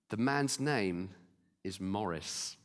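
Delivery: slow, soft and low, almost breathed; hushed divine voice. Retold or imitated. Preacher retelling God speaking softly to his friend, hushed. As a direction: let the words sink to a hush.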